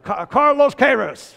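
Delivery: laughing, mimicking کارلوس کیروس the American way; imitating American accent. Preacher mimicking the congregant's American accent, laughing. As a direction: echo کارلوس کیروس with a playful American lilt. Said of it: "خیلی آمریکایی تلفظش کرد".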